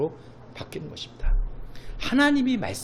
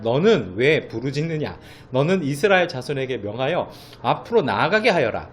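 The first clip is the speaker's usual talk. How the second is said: scripture reading; 4 dB louder than usual. Acted.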